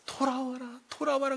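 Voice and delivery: soft, repeated call to return; acted patient entreaty; gentle pleading. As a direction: coax a wayward wife home quietly. God softly calls wayward wife back.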